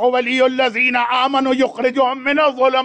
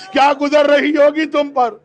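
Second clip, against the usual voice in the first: crying lament; 2 semitones higher than usual. Real, not acted. Lamenting Abbas at Karbala.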